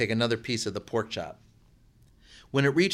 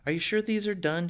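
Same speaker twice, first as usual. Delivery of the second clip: woman's voice; 9 semitones higher than usual. A narrator's reading. Woman's voice in read story.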